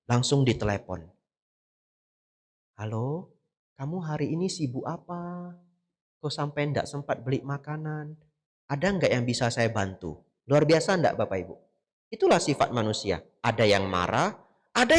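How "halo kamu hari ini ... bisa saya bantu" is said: gentle, much softer, concerned asking; soft caring phone call. Retold or imitated. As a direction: coax him kindly down the phone. (telepon dengan lembut dan penuh perhatian)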